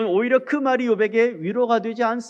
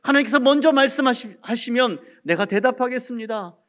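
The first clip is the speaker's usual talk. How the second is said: louder, insistent aggrieved questioning; protesting to God; 3 semitones higher, 4 dB louder than usual. Acted. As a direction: preach Job's complaint with rising force. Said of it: "그러면서 하나님께 이렇게 불평합니다".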